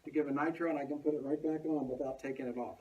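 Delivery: muffled, talking through a face mask. Real, not acted. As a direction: speak with a mask over the mouth. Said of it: "I'm talking through the mask".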